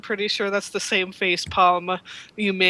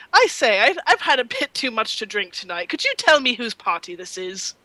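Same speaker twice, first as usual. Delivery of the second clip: tipsy posh Englishman. Acted. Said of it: "just imagine it's a really bad British ac-, English accent".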